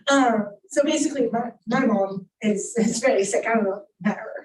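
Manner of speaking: real tearful, halting speech; choked up, pausing mid-sentence; crying. Real, not acted. Daughter explaining her mom is very sick, crying. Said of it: "I'm crying".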